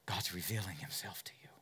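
hushed, intimate whisper. Real, not acted. Preacher whispers to the searching listener, hushed. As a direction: lean in and whisper it.

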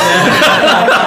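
shrieking laugh after the joke; cracking up at own muted rant; high burst of laughter. Real, not acted.

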